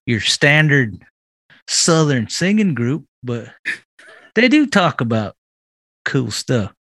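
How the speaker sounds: light Southern accent for a mock radio ad, folksy and friendly. Podcast host doing a joke commercial on a dare, light Southern accent. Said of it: "Do it in, in a Southern accent".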